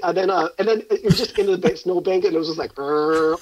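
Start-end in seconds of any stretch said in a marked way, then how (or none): 2.8-3.4 buzzing drone noise. Retold or imitated. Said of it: "like that".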